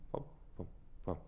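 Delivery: breathless whispered pam pam pam. Shown as a demonstration. Teacher whispers the rhythm to show the contrast. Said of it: "this contrast of character".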